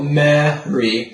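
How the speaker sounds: slow MARY with a tall, open first vowel; Mary, rounded and deliberate; full singer's vowel. Shown as a demonstration. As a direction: draw out Mary like "ma-ree", not "mare-ee". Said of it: "getting a very full sounding vowel".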